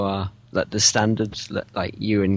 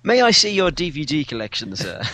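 mock well-spoken visitor; 5 semitones higher than usual. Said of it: "well-spoken yet still wacky Martin".

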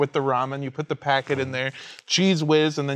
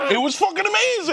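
high, loud shout of delight; excited shout; 3 dB louder than usual. Real, not acted. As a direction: yell how amazing it was. Recalling French toast, shouting.

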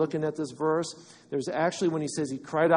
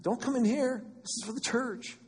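higher, mock-snooty exclusion; snooty church gatekeeper; 8 semitones higher than usual. Church turning away outsiders in a higher, mock-snooty voice. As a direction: turn them away mockingly. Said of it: "That's like the church telling people".

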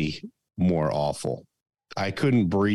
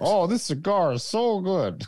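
pretend cigar smoker; 10 semitones higher than usual. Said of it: "I can pretend I'm".

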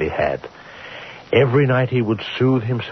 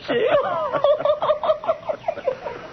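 laugh; 4 dB quieter than usual. Acted. Guest laughs at Bickley.

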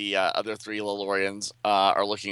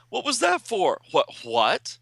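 put-on much higher, annoyed young woman; indignant heroine; 13 semitones higher than usual. Violet confronts Duplicate Boy, high and indignant. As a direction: demand an explanation, high and cross.

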